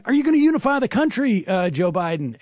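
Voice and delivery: high, fast yelled question from the parade route; mock reporter yell. Reporter yelling down at Joe Biden, high and fast. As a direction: shout it up at the new president. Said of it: "yelling down".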